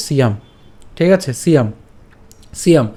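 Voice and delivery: সিয়াম said as siam; model pronunciation. Shown as a demonstration. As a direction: say সিয়াম cleanly. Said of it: "উচ্চারণটা আমরা এভাবে করতে পারি". (সিয়াম এভাবে)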